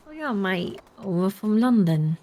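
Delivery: London accent with an unmoving tongue; coached London accent. Shown as a demonstration. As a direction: imitate a Londoner, tongue held still, drawn out. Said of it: "speak like your tongue doesn't move".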